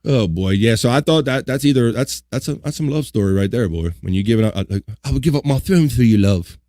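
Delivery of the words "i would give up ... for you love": lightly put-on English accent, romantic; a half-hearted English lover's vow; mock English accent. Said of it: "I don't know why I went Australian".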